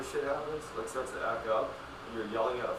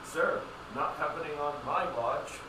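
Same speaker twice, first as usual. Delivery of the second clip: mock Karen; 4 semitones higher, slower than usual. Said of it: "like a real Karen bitch one".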